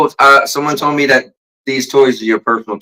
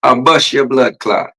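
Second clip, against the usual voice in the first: Jamaican accent. Shown as a demonstration. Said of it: "say it again".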